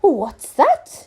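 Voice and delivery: high, loud startled question; alarmed exclamation. Acted. King alarmed by the news, high loud exclamation. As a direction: snap to attention. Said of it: "exclaimed Fred".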